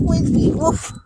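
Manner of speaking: high-pitched call of a name. Real, not acted. Calling out to Quincy.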